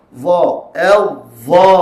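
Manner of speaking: heavy "Dha", voice flowing through the letter; sound released. Shown as a demonstration. Teacher shows the letter releasing voice, full held "Dha". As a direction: sustain "L" as adh, then let "dha" sound out full. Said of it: "lepaskan suara".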